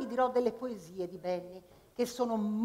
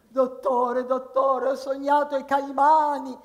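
patient voice; 4 semitones higher, 7 dB louder, slower than usual. Acted. Patient pleading.

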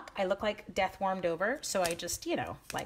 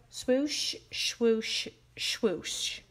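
swoosh noises; much slower than usual. Shown as a demonstration. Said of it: "Make that noise".

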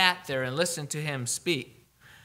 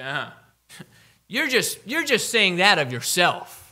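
mocking, higher and louder dismissal; scoffing Pharisees; 4 semitones higher, 5 dB louder than usual. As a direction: sneer it out like a skeptic laughing them off. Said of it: "They say".

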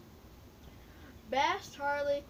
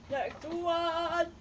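louder, announcing Next one; called out; 4 semitones higher, 4 dB louder than usual. Shown as a demonstration. Kid calling the next question to her viewers, announcing loudly. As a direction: sing out Next one like a host.

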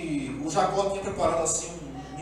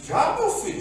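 much higher, surprised question; surprised old father; 13 semitones higher than usual. Retold or imitated. Blind Isaac surprised at his son, high voice. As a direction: ask it startled and high.

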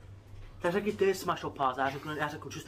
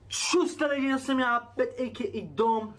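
upbeat intro read to the camera; youtuber intro; 3 semitones higher, slower than usual. Acted. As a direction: greet the viewers like a channel host.

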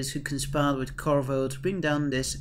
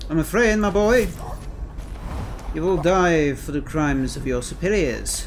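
mock villain threat; 4 dB louder than usual. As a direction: threaten the guard like a hammy villain. Menacing line before a kill.

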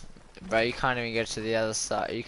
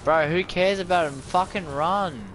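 urgent yell; 5 semitones higher, 5 dB louder than usual. Real, not acted. Urging teammate to flee.

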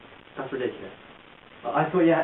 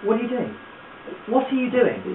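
indignant; 6 semitones higher than usual. Acted. Acted confrontation over what he's doing.

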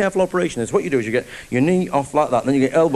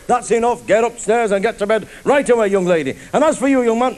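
furious father; 5 semitones higher than usual. Acted. Angry father voiced in story.

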